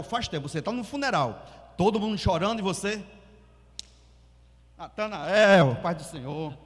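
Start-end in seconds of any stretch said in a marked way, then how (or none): 4.8-6.5 loud, drawn-out happy hello; a mock overjoyed greeting at a wake; cheery greeting. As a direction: greet him too brightly at a funeral. Inappropriately cheerful greeting at funeral.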